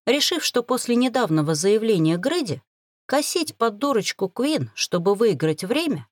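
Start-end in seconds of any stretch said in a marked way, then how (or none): none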